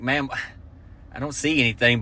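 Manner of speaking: soft, dry cop voice; flat cop. Retold or imitated. Cop dismissing the lady, soft deadpan. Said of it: "they're like".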